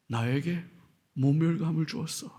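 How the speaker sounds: low, soft wounded grumble; muttered resentment. Acted. Pharisees sulking after being shown up, softly. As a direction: say it under your breath, offended. Pharisees voiced feeling insulted.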